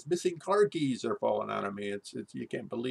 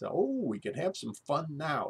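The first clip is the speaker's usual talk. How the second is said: a hint of a chipper doctor, lightly voiced; breezy doctor, only lightly imitated; mock chipper doctor; 6 semitones higher than usual. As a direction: cheerfully offer the fun in a lightly mocking doctor voice. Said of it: "even more chipper than she is".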